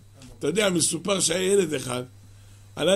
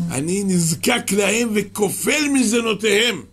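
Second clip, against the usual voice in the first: emphatic; 2 semitones higher than usual. Acted. Quoting God's words.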